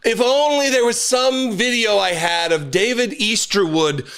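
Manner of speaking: mock wistful, rising to a shout; sarcastic. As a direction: feign innocent longing, then crow. Mock wish about the video.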